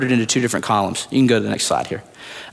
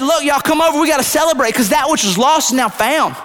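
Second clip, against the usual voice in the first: much higher, bubbly woman calling friends over; excited woman; 11 semitones higher than usual. Acted. Woman calling neighbors over after finding her coin, much higher and bubbly. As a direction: squeal out the good news.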